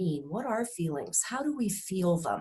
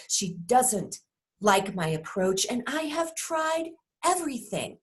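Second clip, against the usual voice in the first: griping about a manager, fed up; frustrated complaining. Shown as a demonstration. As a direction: vent about a boss who is never satisfied. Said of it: "You can hear the frustration".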